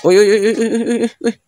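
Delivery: jumpy cry of alarm; startled yelps. Real, not acted. Vlogger startled by a can moving on its own, alarmed yelps.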